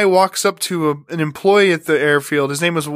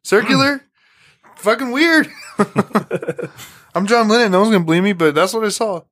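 playing John Lennon; 4 semitones higher than usual. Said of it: "He's like".

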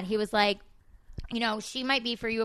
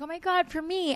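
retold excitement; 8 semitones higher than usual. Retold delight at baby girl.

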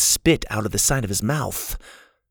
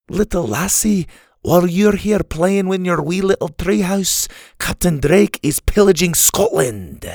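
put-on high-pitched old Scot, chiding; crotchety Scotsman, scolding; 8 semitones higher than usual. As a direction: scold a child like a cranky Scot. Story's crotchety old Scottish man.

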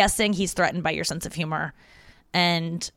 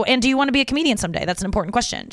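retelling own question; 4 semitones higher, faster than usual. Retold or imitated. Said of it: "I go".

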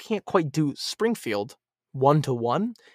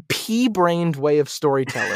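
aggressive rant. Real, not acted. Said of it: "like, aggressively".

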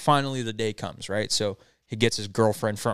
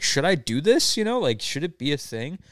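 higher-pitched, hesitant asking; unsure question; 4 semitones higher than usual. Retold or imitated. Boyfriend asks his girlfriend about the gig, unsure. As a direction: wonder aloud, lifting the pitch.

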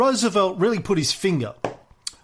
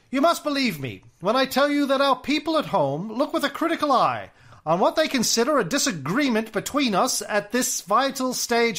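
put-on Mid-Atlantic accent; 3 semitones higher than usual. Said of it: "my nineteen twenties, uh, American aristocrat, accent".

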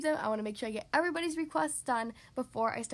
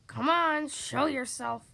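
lightly voiced rumbling creature; a firm, louder hint of a rumble; rumbling deep voice; 4 dB louder, much slower than usual. Unseen dragon to someone hiding in a bush, lightly rumbled. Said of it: "rumbled a deep voice".

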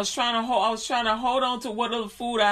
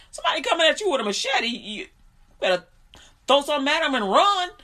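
urgent rapid advice; 4 semitones higher, 3 dB louder, faster than usual. Real, not acted. Advice about machete attack.

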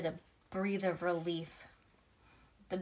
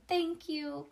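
mild shout; 7 semitones higher than usual. A narrator's reading. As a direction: call it out high, without real volume. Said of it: "All of us shouted".

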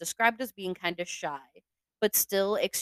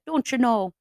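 bad Midwestern accent, a bit higher and louder; 5 semitones higher, 5 dB louder than usual. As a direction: toss off a clumsy Midwestern "don't you know". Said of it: "like a Midwestern accent".

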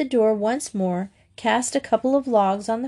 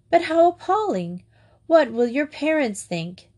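appalled; 6 semitones higher than usual. A narrator's reading. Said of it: "Madge shocked at being storm-stayed".

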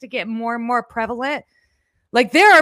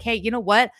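wistful quote; 6 dB louder than usual. Retold or imitated. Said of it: "I've been like".

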